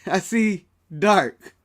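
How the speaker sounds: slow, lightly mystic fortune teller; palm reader voice. Pretend. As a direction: drag it out like a seer. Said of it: "Let me be a palm reader".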